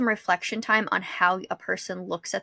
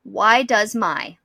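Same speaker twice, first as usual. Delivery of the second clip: typing into Google; 5 dB louder, much slower than usual. Retold or imitated. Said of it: "Type into Google".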